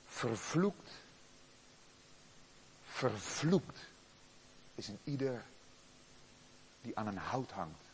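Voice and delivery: soft, low, grave recitation; hushed scripture quote. Acted. Preacher quoting the curse on the one hanged, hushed. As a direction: let the curse fall quietly.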